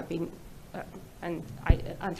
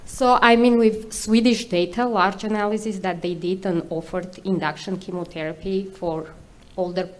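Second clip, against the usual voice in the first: loud, close-miked voice; mic held close; 8 dB louder than usual. Real, not acted. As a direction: speak right into the mic. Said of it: "hold the microphone closer to your mouth".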